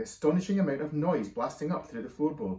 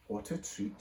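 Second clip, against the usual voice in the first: soft whisper; 3 semitones lower, 7 dB quieter than usual. A narrator's reading. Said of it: "she said".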